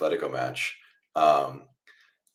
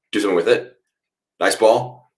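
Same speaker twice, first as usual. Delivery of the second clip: rising louder urging; will Trent on to do something; urging fan; 5 semitones higher, 8 dB louder than usual. Real, not acted. Fan urging Trent on during the attack, excited.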